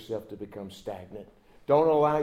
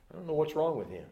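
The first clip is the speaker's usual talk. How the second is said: building to a loud, higher scoff; mocking dad; 5 semitones higher, 7 dB louder than usual. A scornful dad blaming his wife's family, rising to a loud scoff. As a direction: sneer at the kid, then blurt it out. Harsh dad mocks toddler to wife.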